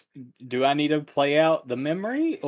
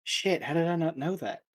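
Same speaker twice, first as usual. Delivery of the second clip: Kanan; 5 semitones higher, 4 dB quieter than usual. Acted. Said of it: "will hear it and be like".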